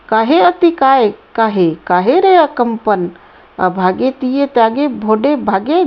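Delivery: rhythmic verse recital; poem recitation. Acted. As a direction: recite the old verse with lilt.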